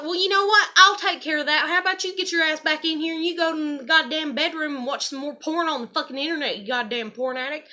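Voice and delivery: high, loud tirade that cools toward the end; retold furious yell. Snapping back at her dad before flinging insults, loud and angry. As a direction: let him have it, loud and high.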